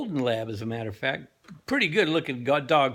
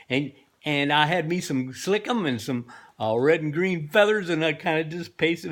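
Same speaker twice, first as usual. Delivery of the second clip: Jonathan Winters bit; 3 semitones higher than usual. Retold or imitated. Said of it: "that's the Jonathan Winters thing".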